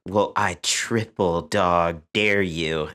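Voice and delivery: very slow, sing-song playground taunt; mocking a schoolyard dare. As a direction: drag out the dare like a smug kid. Mocks brother's childish dare.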